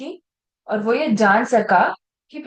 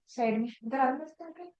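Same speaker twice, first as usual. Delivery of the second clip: much softer, confidential aside; hushed aside; 14 dB quieter than usual. Acted. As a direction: draw someone aside discreetly, voice dropped. Acting Peter drawing Jesus aside.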